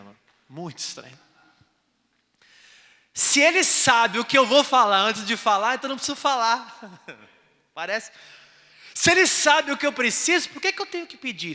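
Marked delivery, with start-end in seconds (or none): 3.1-11.5 loud, high sermon cry; preaching. Acted. Pastor preaching to the church, loud and high. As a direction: preach it hard to the crowd.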